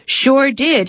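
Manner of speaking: bright, pleased reply; grinning. A narrator's reading. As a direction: say it with a toothless grin. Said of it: "he grins at her".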